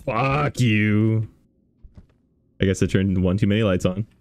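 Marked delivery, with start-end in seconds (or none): 0.0-1.3 nervous, pitched-up defiance; scared horror game streamer. Real, not acted. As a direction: brace yourself and swear at the ghost. Streamer bracing against jump scares.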